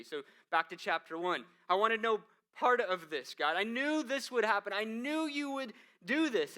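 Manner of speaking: loud, high, rising outburst at God; bitter, high-pitched protest; angry complaint. Acted. Jonah's angry prayer voiced.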